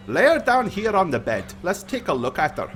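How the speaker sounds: lightly voiced priest directing; priest taking charge. Priest examining the poisoned girl, taking charge.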